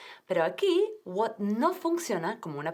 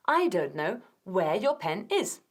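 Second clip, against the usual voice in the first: slow, rising end on "is"; slow model; slower than usual. Shown as a demonstration. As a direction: repeat it slowly. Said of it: "Y no".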